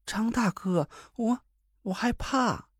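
娇声装害怕; 故作害怕地撒娇; 装腔作势撒娇. A narrator's reading. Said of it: "王月装腔作势地哼起来". (装腔作势娇声哼着说)

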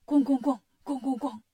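imitated bang-bang-bang; banging on a door. A narrator's reading. Narrator imitates the cudgel smashing the gate, banging. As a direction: pound out the knocks with the voice. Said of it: "就拿金箍棒砸门".

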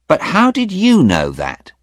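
high, loud startled question; startled young man; surprised young man. Acted. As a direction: woken too early and baffled.

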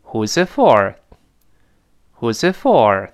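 falling tune, emphasis landing on "for"; model question reading. Shown as a demonstration. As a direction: link "who's it" and drop firmly on "for". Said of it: "他问的是".

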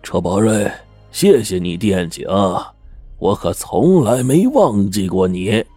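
slow, sarcastic thanks; drawn-out scorn to a false friend; slowed, pointed mockery; mocking. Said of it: "嘲弄着说".

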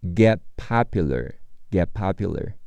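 "get popular" with the t of "get" stopped silently before "popular"; ge' popular, the t swallowed; unreleased t. Shown as a demonstration. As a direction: hold the t in "get", no burst. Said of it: "get的t会失去爆破".

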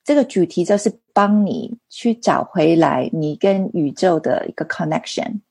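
Mandarin with a non-native accent; halting Mandarin, foreign accent; foreigner speaking mandarin. Real, not acted. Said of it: "因为我中文不太好".

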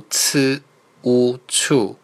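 teacher spelling out 呲 plus 乌 as 处 with a puff of air; aspirated syllable blending. Shown as a demonstration. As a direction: slowly sound out 呲, 乌, then blend into 处. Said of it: "送气音什么送气音啊".

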